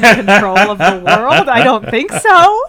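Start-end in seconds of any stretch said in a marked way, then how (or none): 1.5-2.6 sarcastic retort. Real, not acted. Sarcastic answer to a silly plot.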